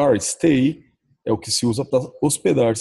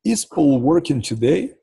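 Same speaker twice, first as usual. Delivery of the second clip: each word slow and clear for learners; slow model question with a rise at the end; slow teaching read; 4 semitones higher, much slower than usual. Shown as a demonstration. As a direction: sound it out slowly, like a teacher. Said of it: "Depois vem a próxima frase".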